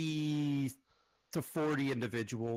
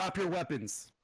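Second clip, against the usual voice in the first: higher-pitched, mildly acted order; called-out command; 4 semitones higher than usual. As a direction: repeat the challenger's order, lightly called out. Game master repeats challenger's order.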